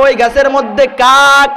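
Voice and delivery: exasperated snap at father about the crow; angry scolding. Retold or imitated. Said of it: "রাগান্বিত হয়ে বাবাকে ধমক দিয়ে বলে". (বিরক্ত হয়ে ধমক)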